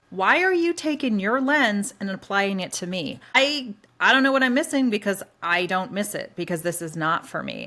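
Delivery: annoyed retort. Retold or imitated. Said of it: "She's like".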